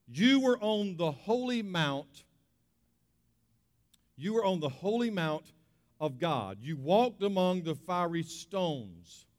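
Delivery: slow, measured reading of the verse; preacher reading Ezekiel slowly to the church; scripture reading. Acted. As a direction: read the passage with weight. Reads scripture aloud.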